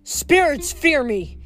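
a slow, hammed-up battle bellow. A narrator's reading. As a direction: boast it slowly like a goat warrior. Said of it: "Hedge bellowed".

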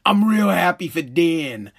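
low, bitter grumble of false joy; sarcastic low mutter of being happy; sour Bezos. Retold or imitated. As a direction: grit out the congratulations, clearly annoyed. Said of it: "It's Bezos being like".

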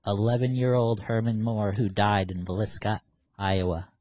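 measured, solemn roll call to a spirit; séance invocation. Pretend. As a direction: formally summon the dead boy. Addresses spirit on Ouija board.

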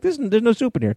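high, squeaky mock dismay; a high imitating whine over an empty bowl. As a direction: complain like a cheated diner. Voicing disappointed diner.

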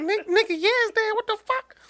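he yelps in mock shock at the dead thing. Friend yelling that it is dead, in high mock shock. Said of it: "And I was like".

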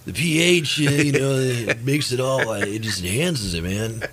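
a hint of a mellow stoner. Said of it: "some stoner would say that".

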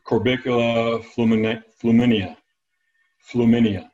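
fluminea said as floo-MIN-ee-uh, falling at the end; demonstrated pronunciation. Shown as a demonstration. Expert showing an interviewer the clam's Latin name, demonstrated pronunciation. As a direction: show how fluminea goes, floo-MIN-ee-uh, after a false start. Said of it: "How do you say it?".

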